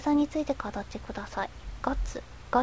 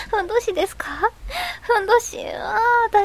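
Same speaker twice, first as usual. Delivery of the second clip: higher, louder amused surprise; surprised; 8 semitones higher, 4 dB louder than usual. Real, not acted. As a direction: react in amused disbelief. Surprised by odd comment.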